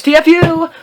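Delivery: sarcastic slow read; mocking read. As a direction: drawl it out to mock the author. Reading author's note mockingly.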